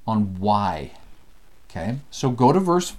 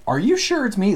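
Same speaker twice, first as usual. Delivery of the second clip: mock doubt; 9 semitones higher, 3 dB louder than usual.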